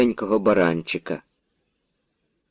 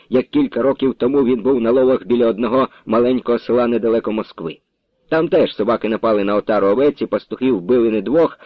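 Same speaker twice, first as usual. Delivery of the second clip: plain reading voice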